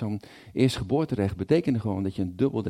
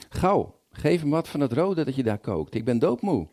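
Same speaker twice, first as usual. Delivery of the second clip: exhausted Esau; 5 semitones higher than usual. Acted. Esau begs Jacob for food.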